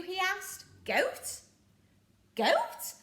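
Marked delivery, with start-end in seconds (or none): 0.8-1.4 puzzled. Acted. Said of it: "said Handkerchief". 2.4-2.9 much higher, louder goat; outraged disbelief. Acted. Pirate captain appalled at goat stew, high incredulous. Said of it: "said Handkerchief".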